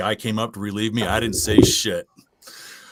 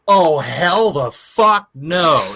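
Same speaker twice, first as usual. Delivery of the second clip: slow, higher, louder mock defiance; hammed-up refusal; 5 semitones higher, 5 dB louder, much slower than usual. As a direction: drag it out like a flat refusal to stay. Crewmate reacting to pounding.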